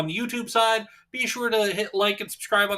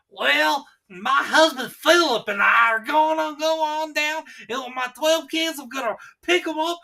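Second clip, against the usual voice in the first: mock a backwoods Southern wife with a heavy accent, pitched up; exaggerated Southern accent; 7 semitones higher than usual. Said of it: "Not like".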